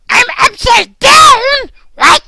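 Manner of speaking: slow, loud startled cry; shocked shout. Acted. Dog shouting to viewers in surprise. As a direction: yell it in disbelief. Dog finds himself upside down.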